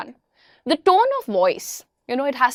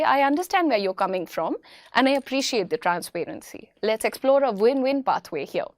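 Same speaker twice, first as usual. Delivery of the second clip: calm executive reply; 4 dB quieter than usual. Shown as a demonstration. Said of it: "That is the way a person who's sorted".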